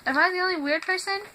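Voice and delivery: retold bewildered appeal. Asking if anyone else likes freezer smell, bewildered.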